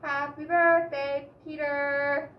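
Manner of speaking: loud, slow squawky parrot. A narrator's reading. A lightly voiced parrot repeating the greeting at the party. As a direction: mimic it like a parrot. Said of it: "repeated the parrot".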